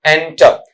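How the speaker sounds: एंटर as "EN-ta", the r dropped; unstressed final r. Shown as a demonstration. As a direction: say एंटर with no pressure on the r. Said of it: "रे पर कोई pressure नहीं".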